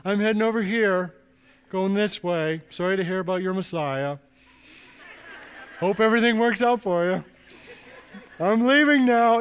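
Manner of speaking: teasing offhand goodbye; playful brush-off. Retold or imitated. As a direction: wave them off like you're just leaving. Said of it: "Jesus is going".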